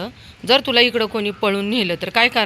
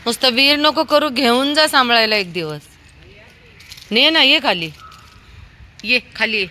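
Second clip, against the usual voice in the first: high, raised voice carrying upward; loud, high-pitched calling; 5 semitones higher, 4 dB louder than usual. Real, not acted. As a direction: call someone down from upstairs. Calling up to someone to come down.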